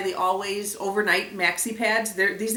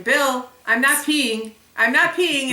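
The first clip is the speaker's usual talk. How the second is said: loud, raised-pitch insistent call, drawn out on the name; retold yelling; 5 semitones higher, 7 dB louder, slower than usual. Wife calling husband from the bathroom, loud insistent yell. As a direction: re-enact yelling for your husband's attention. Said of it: "I'm yelling at him".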